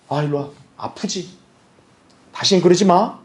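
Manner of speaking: comforting father. Retold or imitated. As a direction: soothe the hurt child. 때린 뒤 달래는 아버지. (아이를 달래는 낮고 부드러운 아버지 목소리)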